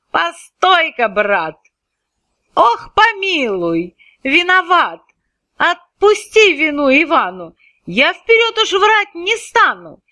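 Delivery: высокий испуганный голос, мольба о пощаде; умоляй царя, дрожа от страха; frightened pleading. Acted. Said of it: "задрожав, как лист в буран". (Иван в испуге молит царя: высоко и жалобно)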